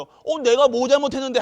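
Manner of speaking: loud, high indignant comeback; defiant retort. Retold or imitated. Preacher mimics a defensive churchgoer, loud indignant retort. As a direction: throw it back like a caught child who won't admit fault. Defiant sinner quoted in sermon.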